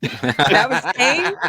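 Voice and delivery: disbelieving question through laughter; incredulous. Real, not acted. Host questions co-host's verdict on the rude clip, incredulous.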